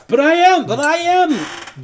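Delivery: very high, loud, insistent squeal; protesting gnome. Acted. Gnome caught at the intercom, shrill protest. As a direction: whine back in a squeaky voice.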